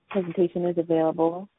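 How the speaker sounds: ordinary talk, nothing marked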